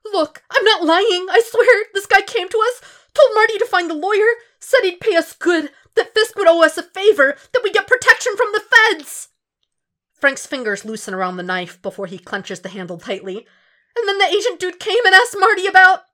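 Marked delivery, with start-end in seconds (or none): 0.1-9.3 desperate thug, pitched up. Acted. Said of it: "The desperation sets in quick". 14.0-16.1 much higher, louder rushed confession; frantic snitching; desperate thug. Acted. Thug keeps spilling.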